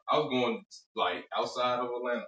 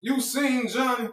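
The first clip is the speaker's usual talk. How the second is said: fake tough guy swagger; 11 semitones higher, 4 dB louder, slower than usual. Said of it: "What was Bernie Mac say?".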